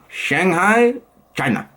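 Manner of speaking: weak attempt at a Chinese accent, city rising. Vlogger's first failed try at Shanghai, Chinese accent. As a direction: poorly imitate a Chinese accent. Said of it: "No, that was not good".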